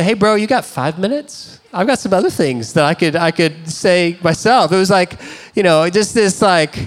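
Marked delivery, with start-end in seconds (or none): 0.0-4.7 mock comeback. Wants to hit back at roommate, mock retaliatory challenge. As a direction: throw the question back with a little edge. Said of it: "I kinda wanted to say".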